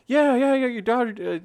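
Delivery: high, loud mock of an eager mom; mom's excited voice. Retelling a phone call, he imitates the eager mom. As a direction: play the mom, bubbling over on the line.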